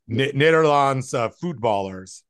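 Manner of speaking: a light imitation of a Dutch grandmother saying "Nederlands"; Dutch grandma accent. Grandson imitates his Dutch grandmother naming the Dutch, mild accent. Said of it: "my best Dutch grandma accent".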